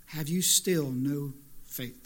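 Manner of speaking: slow, low, let down; disappointed. Acted. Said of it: "You hear the disappointment in his voice".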